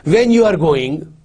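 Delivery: "When you are going" asked as a question by tune; questioning intonation. Shown as a demonstration. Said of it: "make it sound like a question".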